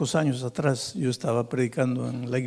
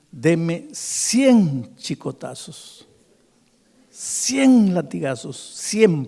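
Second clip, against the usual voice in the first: begging; 4 semitones higher, 4 dB louder, much slower than usual. Retold or imitated. Drunk begs to be whipped.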